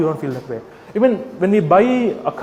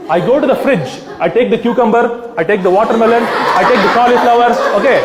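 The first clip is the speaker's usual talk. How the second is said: laughing through list; 4 semitones higher, 4 dB louder than usual. Real, not acted. Absurd rescue, laughing.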